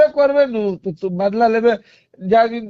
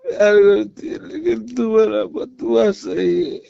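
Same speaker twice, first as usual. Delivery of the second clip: tearful. Acted. Man pleading with his ex, crying as he speaks. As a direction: voice cracking into a sob.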